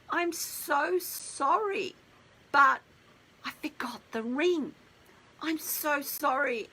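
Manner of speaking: slow, high, choked-up sorry; teary apology. Retold or imitated. Boyfriend apologising in tears for forgetting the ring, mock teary. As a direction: retell his tearful plea, slowed right down. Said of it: "he's got tears coming down his eyes".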